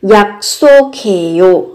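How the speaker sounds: 약속해요 with doubled s in 속 and k-h joined into kh; demonstrated pronunciation. Shown as a demonstration. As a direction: say 약속해요 carefully as yak-ssu-khe-yo. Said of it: "âm tiết thứ hai thì gấp đôi phụ âm sở". (phát âm 약속해요 với âm s gấp đôi và âm khờ)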